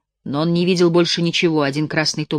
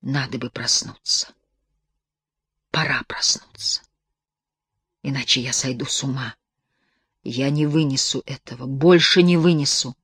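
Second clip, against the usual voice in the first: to himself; 3 semitones lower than usual. A narrator's reading. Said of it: "сказал себе". (тихо, про себя)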